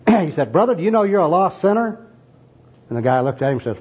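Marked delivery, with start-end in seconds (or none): 0.5-2.1 high-pitched, eager gospel worker; enthusiastic street evangelist. Acted. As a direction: press the question with evangelistic zeal. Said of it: "advances upon the tramp with obvious enthusiasm".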